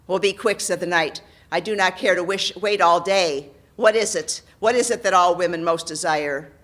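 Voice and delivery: loud, curt demands; impatient knight. Acted. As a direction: press him to hurry. Knight character voice.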